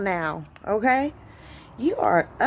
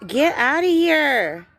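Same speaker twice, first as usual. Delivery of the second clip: shooing shout; 5 semitones higher, 3 dB louder, slower than usual. Real, not acted. Shooing the bird away.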